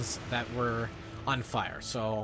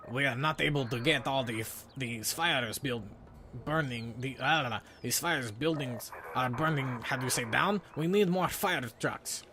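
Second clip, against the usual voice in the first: slow, halting bad French accent; a clumsy French accent, groping for words. Game character with fire problems, in a bad French accent. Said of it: "doing my really bad in French accent".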